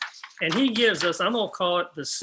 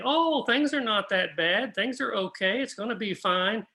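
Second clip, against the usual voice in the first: foolish deceivers; 4 semitones higher than usual. Retold or imitated. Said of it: "foolish deceivers saying".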